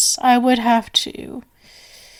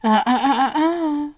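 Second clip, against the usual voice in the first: playful laugh; 2 semitones higher than usual. Acted. Stopping guest from leaving.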